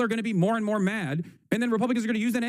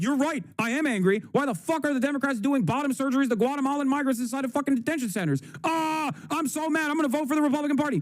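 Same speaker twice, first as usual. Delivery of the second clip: mock outraged voter, pitched up; angry voter; 6 semitones higher than usual. Riled-up voter parroting the Republicans, mock outrage. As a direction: ham up a furious voter getting riled. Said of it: "They're like".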